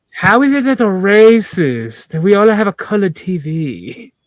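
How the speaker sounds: English spoken in a put-on Chinese accent. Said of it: "because of the Chinese accent".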